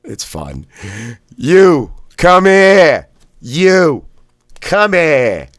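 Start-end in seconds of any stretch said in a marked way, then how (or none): 1.4-3.1 "come here" with Boston "here", loud and high; Boston blast. Shown as a demonstration. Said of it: "the here is like fire. That's Bostonian". 3.4-5.5 "come here" with Boston "here", loud and high; Boston blast. Shown as a demonstration. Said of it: "the here is like fire. That's Bostonian".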